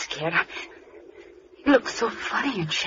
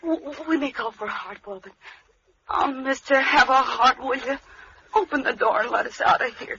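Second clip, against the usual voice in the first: frightened pleading; 5 semitones higher than usual. Acted. Begging the captor for release.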